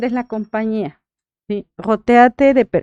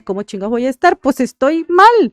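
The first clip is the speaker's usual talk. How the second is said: imitating a grieving mother; 3 semitones higher than usual. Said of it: "te dicen cómo estás".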